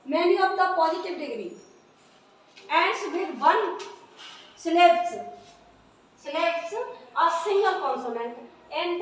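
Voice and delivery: slow, deliberate dictation of an English rule; dictating a rule. Shown as a demonstration. Teacher dictating the rule to the class, slow and deliberate. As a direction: read each word out slowly so pupils can write it.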